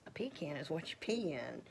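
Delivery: pecan said PEE-can, rhyming with pee; sister's pecan joke. Retold or imitated. Quoting her sister's joke, pecan as PEE-can. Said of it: "My sister says".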